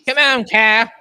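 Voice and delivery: loud, high holler of encouragement; urging shout. Real, not acted. Fan urging the driver on, loud high shout. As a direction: yell it at the driver on screen.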